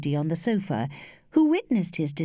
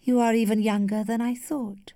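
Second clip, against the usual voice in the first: higher, gently tender; note of tenderness; 5 semitones higher than usual. A narrator's reading. Lady tells the young man he is young, mildly tender. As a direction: let affection show just a little. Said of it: "with an unmistakable note of tenderness".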